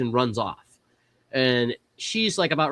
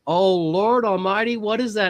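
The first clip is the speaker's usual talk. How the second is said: shocked mailman; 7 semitones higher, 3 dB louder than usual. Retold or imitated. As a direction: gasp it out like a startled old neighbor. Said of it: "And he's, like, looking down".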